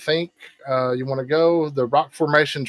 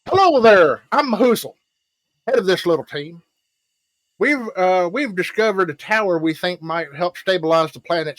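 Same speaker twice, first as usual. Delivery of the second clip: NPC voice; 3 semitones higher than usual. Acted. Game master voicing Mahusal greeting the party, higher and brighter. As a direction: greet the party as a cheerful expedition head.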